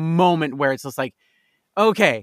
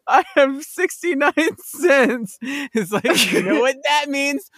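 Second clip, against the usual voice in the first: Vine impression; 8 semitones higher, slower than usual. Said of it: "thought of the Vine".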